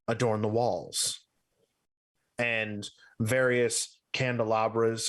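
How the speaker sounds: measured narration with long pauses; game master's scene setting. Acted. Game master describing the dark library to players, scene setting. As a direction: set the scene unhurriedly, pausing between phrases.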